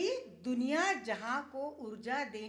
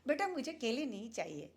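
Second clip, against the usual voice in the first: lovingly; 2 semitones higher than usual. Retold or imitated. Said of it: "प्यार से कहा".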